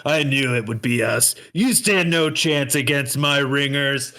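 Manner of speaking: lightly voiced pompous rival; pompous lion guy. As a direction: gloat at the underdogs, mildly hammed up. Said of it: "pompous asshole lion guy".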